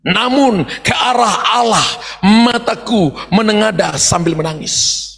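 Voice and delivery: slow and broken, crying in the voice; slow weeping prayer; tearful reading. Shown as a demonstration. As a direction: read it as a tearful cry to God. Verse repeated, weeping.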